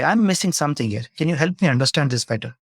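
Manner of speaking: a hint of gentle curiosity; gentle ask. Shown as a demonstration. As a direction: ask kindly, inviting them to open up. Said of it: "You very gently say".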